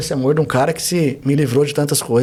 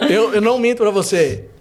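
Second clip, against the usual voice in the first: rindo; 5 semitones higher than usual. Real, not acted. Rindo depois de gabar-se.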